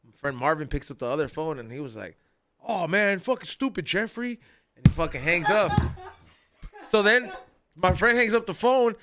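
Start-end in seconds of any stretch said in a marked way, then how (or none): 2.7-4.4 higher, fed-up groan at Jeffrey; exasperated jab. Retold or imitated. Marvin on the other line, calling Jeffrey stupid in a higher, exasperated voice. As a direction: scoff at him like you've been caught out.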